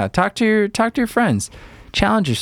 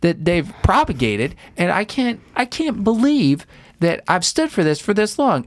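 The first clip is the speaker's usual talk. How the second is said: mock furious; 9 semitones higher than usual. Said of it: "I'm furious".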